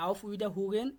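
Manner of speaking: auf Wiederhugen stretched out slowly, syllable by syllable; teacher slowly sounding out auf Wiederhugen; slow model pronunciation. Shown as a demonstration. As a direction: say auf Wiederhugen slowly so learners can copy. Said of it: "শুধুমাত্র আমি উচ্চারণ করে দিচ্ছি".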